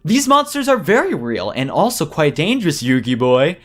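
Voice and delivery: taunting villain. Acted. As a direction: toy with the young hero.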